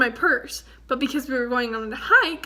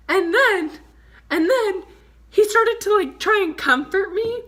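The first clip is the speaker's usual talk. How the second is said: teary laugh; 6 semitones higher, 5 dB louder than usual. Real, not acted. Laughing while still teary.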